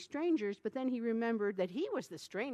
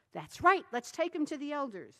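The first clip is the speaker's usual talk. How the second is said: crowd agreeing; 6 semitones higher, 5 dB louder than usual. A narrator's reading.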